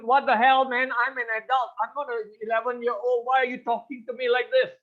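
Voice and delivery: exasperated inner voice. Retold or imitated. Thinking back at a friend who talks down, exasperated. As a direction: protest like an insulted grown-up.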